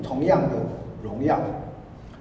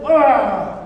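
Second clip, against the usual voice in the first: effortful squeeze grunt; 4 semitones higher, 5 dB louder than usual. Shown as a demonstration. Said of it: "要很用力，".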